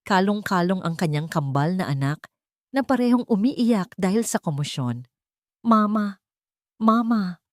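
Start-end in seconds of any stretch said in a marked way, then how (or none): 5.7-7.4 put-on child shouting. A narrator's reading. Small child crying out for his mother, shouting. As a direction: call out for mother. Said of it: "sigaw ni Alitap".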